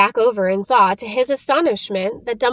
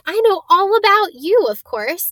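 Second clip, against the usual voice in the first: fast; 5 semitones higher than usual. Acted. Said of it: "She said all this very fast".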